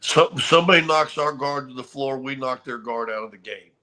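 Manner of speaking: measured Sean Connery-style threat, lightly done; half-hearted Untouchables speech; lightly voiced Laimbeer. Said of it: "he said it just like that".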